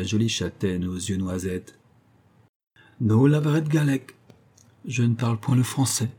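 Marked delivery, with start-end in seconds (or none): 3.0-6.1 put-on a sharp, cutting young woman's reply, pitched higher; crisp and biting. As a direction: bite off each word to mock him. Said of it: "de sa voix nette et mordante". (réplique nette et mordante, un peu plus aiguë)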